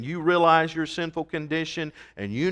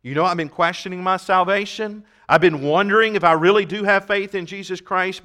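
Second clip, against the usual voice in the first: model prayer; 4 semitones higher, 4 dB louder than usual. Pretend. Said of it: "come in prayer saying".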